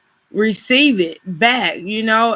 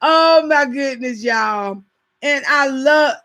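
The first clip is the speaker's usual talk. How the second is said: laughing; 5 semitones higher than usual. Real, not acted. Still laughing.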